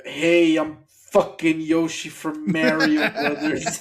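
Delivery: slow, hammed-up game character voice; video game donkey voice. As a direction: announce yourself like a cartoon donkey. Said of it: "you do the video game donkey".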